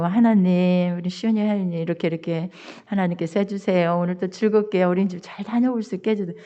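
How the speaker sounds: retold prayer. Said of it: "기도를 해주고".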